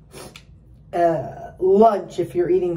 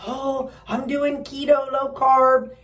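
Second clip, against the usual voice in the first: mock eager dieter; 6 semitones higher, slower than usual. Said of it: "don't say".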